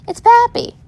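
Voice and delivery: sudden high cry of recognition; shocked recognition. A narrator's reading. Child spots her bloodied grandfather, high startled cry.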